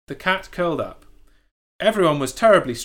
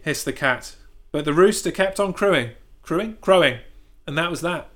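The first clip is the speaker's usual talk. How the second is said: usual speaking voice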